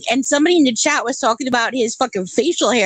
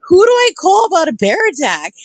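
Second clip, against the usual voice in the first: laughing disbelief; 2 semitones higher than usual. Retold or imitated. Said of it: "Yeah, I'm like".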